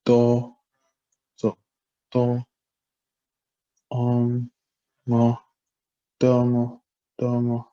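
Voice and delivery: do, mo, domo all on high tones; syllables of domo, each high. Shown as a demonstration. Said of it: "with all high tones".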